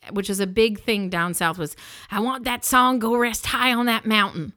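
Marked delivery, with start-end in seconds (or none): 2.1-4.5 insistent demand. Retold or imitated. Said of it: "he's like".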